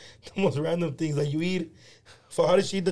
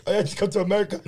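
lightly imitated Filipino accent; friend's put-on Filipino accent, retold; mock Filipino accent; faster than usual. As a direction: play a newcomer with a Filipino accent. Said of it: "he does the accent so well".

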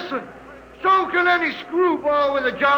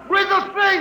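angry shout; 5 semitones higher than usual. Acted. Union man yelling back at the hostile engineers, angry shout. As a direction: throw it back at the room in anger. Harvey heckling engineers in anger.

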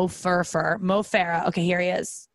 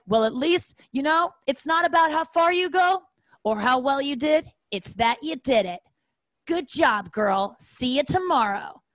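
sugary, patronizing encouragement, pitched up; condescending app coach; 5 semitones higher than usual. Retold or imitated. App coach patronizing a runner after her run, mock sweet. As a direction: talk down to her like a cheerleader. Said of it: "condescending bullshit".

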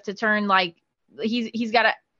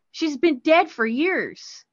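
slow, drawn-out, spooky line; slow eerie reveal; 4 semitones higher, much slower than usual. Retold or imitated. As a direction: let it hang, slow and eerie. Daughter reveals the ghost.

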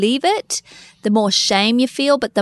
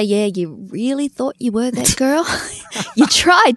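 mocking inner voice; slower than usual. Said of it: "My brain starts to say".

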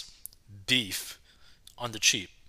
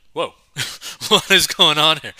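loud, high disbelief; retold shock; 4 semitones higher, 10 dB louder than usual. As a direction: blurt it out in mock alarm. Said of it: "which shocked me".

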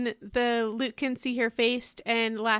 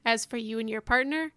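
ad read. Acted. Reads a mock wedding ad.

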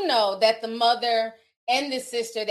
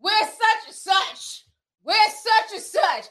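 mock phone-answering voice, higher and slow; phone receptionist; 9 semitones higher, slower than usual. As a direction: imitate a woman answering a call, drawn out. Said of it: "You got a woman picking up the phone".

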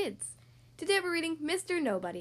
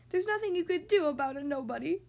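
mildly tearful, higher voice; weeping; 4 semitones higher than usual. Acted. Mister Nobody turning down help, weeping a little. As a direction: plead hopelessly, a touch weepy. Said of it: "wept the person who".

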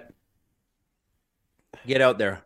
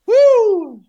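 high loud whoop; pained whoop; 7 dB louder than usual. Real, not acted. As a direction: yell out the burn. Spicy pain.

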